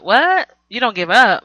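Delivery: high, disbelieving what; can't believe she said that; incredulous what. Real, not acted. Vlogger reacting to Amina's excuse, incredulous.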